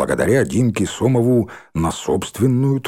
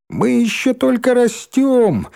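high, slow squeaky voice; 13 semitones higher, slower than usual. Acted. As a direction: squeak it out like a little kid. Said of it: "писклявым голоском вставил Рыжий".

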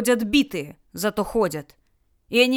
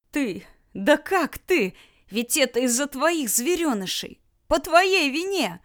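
обвинение; 5 semitones higher than usual. Acted. Люля обвиняет Германа, тыча пальцем.

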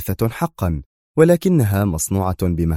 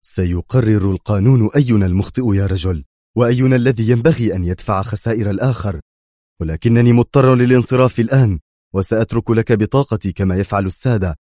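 indignant, building louder toward the end; angry; 4 dB louder than usual. Acted. Bruce leaving his card with the driver, angry. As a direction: argue back angrily with raised voice. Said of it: "وهو يقول في غضب".

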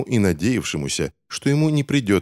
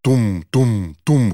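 slow, loud thudding knocks; heavy door pounding; booming knocks; 4 semitones higher, 6 dB louder, much slower than usual. A narrator's reading. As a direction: boom each knock out slowly. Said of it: "громыхало будто бы ей в ответ".

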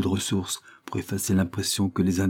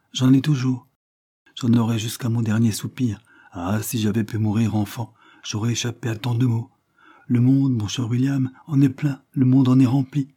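impassioned lament, slightly raised voice; sorrowing governess; 4 semitones higher, 4 dB louder than usual. Acted. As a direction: pour out a long-held grief to the child.

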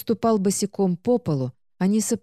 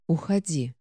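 hoarse; 3 dB quieter than usual. Acted. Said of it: "с хрипом попросила у стража".

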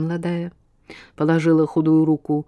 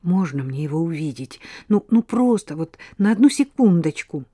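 pleading. Acted. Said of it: "взмолилась Глафира".

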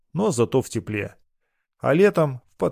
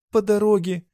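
higher, the phrase repeated as the voice gives way; faltering, near tears; 9 semitones higher than usual. A narrator's reading. Girl tries again to tell her lover about the attack, breaking down.

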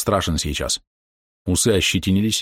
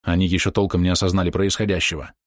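plain reading voice

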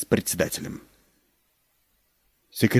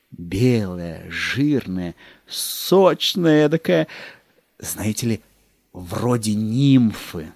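savouring; much slower than usual. Acted. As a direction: linger over each tasty word. Savouring the turkey.

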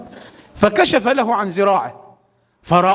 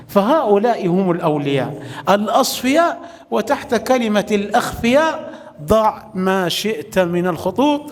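usual speaking voice

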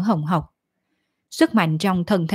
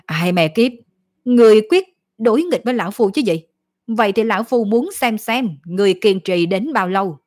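demonic double voice; 3 semitones higher, 3 dB louder than usual. Acted. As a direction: snarl it like an enraged demon. Demon rages at the fleeing youth.

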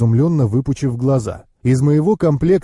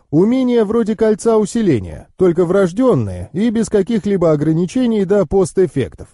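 higher-pitched knowing uncle; explaining uncle; 6 semitones higher than usual. Acted.

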